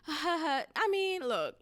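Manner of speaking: put-on nervous-free brush-off; playing it off. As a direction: imitate laughing off an awkward remark. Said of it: "had to play it off".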